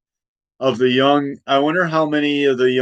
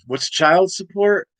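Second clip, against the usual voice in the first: incredulous George Washington; 8 semitones higher than usual. Retold or imitated. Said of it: "he'd be like".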